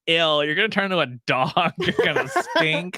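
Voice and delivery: put-on laughing through a grossed-out girl voice; mock disgusted girl. Girl teasing a guy, laughing and grossed out. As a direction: giggle out a disgusted tease. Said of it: "and the girl's like".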